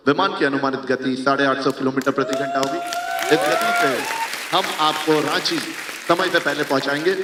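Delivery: formal in-flight captain announcement; pilot announcement voice. Shown as a demonstration. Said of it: "एक बार बोल के दिखाइए ना सर". (पायलट की अनाउंसमेंट वाली आवाज़)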